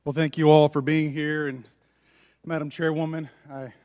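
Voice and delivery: winded after sprinting in; out of breath. Real, not acted. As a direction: catch your breath between words. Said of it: "out of breath 'cause I sprinted to get here".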